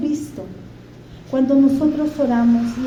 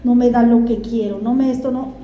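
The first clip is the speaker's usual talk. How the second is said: put-on whining child; 4 semitones lower than usual. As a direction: sulk like a kid denied ice cream. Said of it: "y el niño va".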